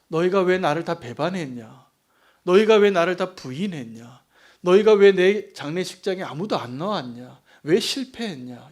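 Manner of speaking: loud scolding of disloyal disciples, slowing at the end; mock rebuke. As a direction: shout the reproach like a betrayed master. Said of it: "이걸 책망하신 게 아니에요".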